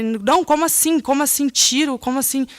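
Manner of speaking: can't take in what she's hearing; desperate disbelief. Retold or imitated. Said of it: "Aí eu já fiquei desesperada".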